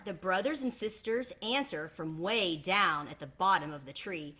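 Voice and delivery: put-on gentle read-aloud voice for children; storybook narration; story narration. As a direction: tell it like a picture book to the class. Narration between duck voices.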